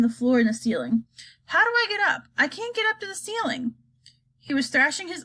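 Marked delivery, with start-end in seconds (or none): 1.5-3.7 panicky. Acted. Charlie struggling midair.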